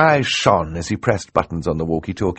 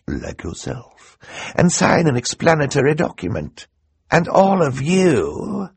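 triumphant theatrical villain revealing his plan; scheming Count Olaf; 6 semitones higher than usual. Acted. Olaf lectures the judge.

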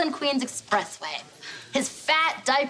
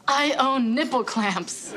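slow, hushed lovey-dovey murmur; mock romantic whisper; slower than usual. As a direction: coo it like a sweet nothing. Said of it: "Their romantic whispering goes like this".

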